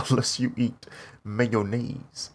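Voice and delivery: drawn-out, deadly serious mock warning; slow deadpan imitation. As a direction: stretch it out like a grave instruction. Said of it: "That's how he said it".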